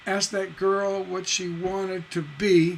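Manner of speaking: slow line, landing firmly on "be"; stress on final BE. Shown as a demonstration. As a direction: stretch and stress the closing "be". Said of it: "Hear that stress on the last line?".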